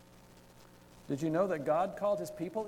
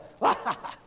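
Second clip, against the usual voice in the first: hyena laugh; 3 semitones higher, 5 dB louder than usual. Retold or imitated. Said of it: "they're just rolling around".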